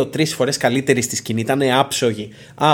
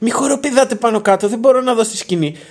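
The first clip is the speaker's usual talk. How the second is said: high-pitched, acted-out holler; 9 semitones higher, 3 dB louder than usual. Retelling a woman behind them who shouted that she couldn't see the stage, retelling a woman's shout. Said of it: "μα φώναζε".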